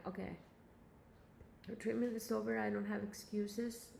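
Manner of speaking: eating an apple while talking; talking through a bite of apple; mouth full. Real, not acted. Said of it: "Sorry, I'm eating an apple".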